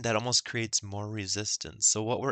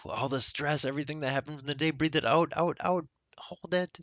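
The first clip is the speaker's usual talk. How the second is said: rising higher and quicker, then a held "Hold it"; urgent breathing cue; 4 semitones higher than usual. Real, not acted. Guide urging listeners to empty their lungs, urgent and rising. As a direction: push them through the last of the exhale, pitch climbing.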